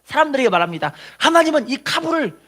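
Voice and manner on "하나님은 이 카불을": high, shouted proclamation; bold proclamation. Acted. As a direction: proclaim it to the crowd at full voice. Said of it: "선포를 하는 거예요".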